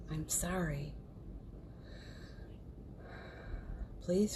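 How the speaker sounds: quiet, unhurried recitation; guided mantra. Real, not acted. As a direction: lead them gently through a healing mantra, pausing after each phrase. Leads a Ho'oponopono recitation.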